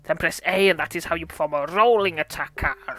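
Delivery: lightly voiced pirate mentor; half-hearted pirate, rolling out the words. Pirate mentor teaching Evie a rolling attack, lightly voiced. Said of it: "Pirate voice".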